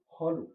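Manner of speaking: খলু said with a short খ, never খালু; short vowel. Shown as a demonstration. Teacher to students, খলু with short খ. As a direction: keep খ short in খলু, don't stretch it. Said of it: "এখানে খালু কিন্তু করবো না".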